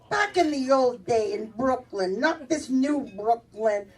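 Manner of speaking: slow, lightly voiced Angela reminiscing; storytelling relative. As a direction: draw out an old-days tale. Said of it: "one of the Angela's telling a story".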